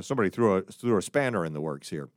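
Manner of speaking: mock British aside, lightly done; British English. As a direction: drop into a hint of British English. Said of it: "I'm going into British English here".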